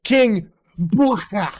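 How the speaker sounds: loud, slow, high drawn-out "King Booker"; announcer-style King Booker. Shown as a demonstration. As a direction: boom it like a ring announcer.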